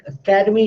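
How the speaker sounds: "academy" said with a strong ca; stress on the second syllable. Shown as a demonstration. Teacher asking students to hear stress, "academy" with ca stressed. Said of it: "you can hear ka is loud".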